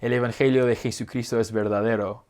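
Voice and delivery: smooth fluent Spanish accent, tapped r; flowing Spanish delivery; native Spanish accent. Shown as a demonstration. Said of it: "A way to say".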